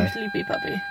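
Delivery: very high, very soft puppy voice; sleepy puppy voice. Pretend. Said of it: "She's like".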